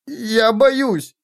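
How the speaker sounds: put-on high, thin little-child voice; weepy frightened child. A narrator's reading. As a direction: plead in a scared child's high voice. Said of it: "Дитя рыдало".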